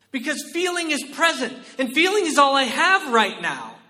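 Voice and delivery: loud, rising pulpit preaching; preaching at full force. Acted. Pastor urging the congregation, in loud full-force preaching. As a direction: drive it home from the pulpit.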